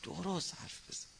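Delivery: quiet firm warning. Shown as a demonstration. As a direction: say it softly but firmly. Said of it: "ببین".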